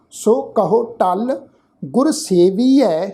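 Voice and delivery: slow, drawn-out verse recitation; scripture recitation. Shown as a demonstration. Teacher repeats the verse for the congregation, slow measured recitation. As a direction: recite it measured, stretching the long vowels. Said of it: "ਫਿਰ ਤੋਂ ਪਾਠ repeat ਉਚਾਰਨ".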